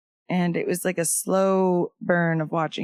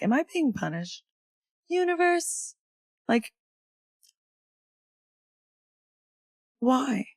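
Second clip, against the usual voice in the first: pleading to universe; 6 semitones higher than usual. Retold or imitated. Asking the universe in despair.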